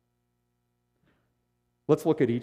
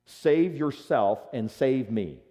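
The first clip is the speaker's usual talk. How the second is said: raised, somewhat desperate demand; desperate insult; 3 semitones higher, 5 dB louder than usual. Acted. Dying criminal insults Jesus on the cross, desperate. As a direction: hurl it like you've nothing to lose. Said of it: "it's an insult of desperation".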